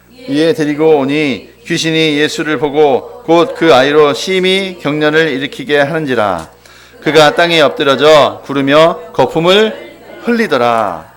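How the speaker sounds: slow, measured congregational reading; scripture reading aloud. A narrator's reading. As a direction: lead the verse slowly and evenly. (천천히 또박또박 성경 봉독)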